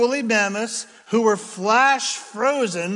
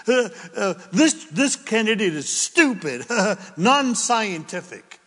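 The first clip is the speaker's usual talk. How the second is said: mocking critic; 3 semitones higher than usual. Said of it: "people get shredded for that".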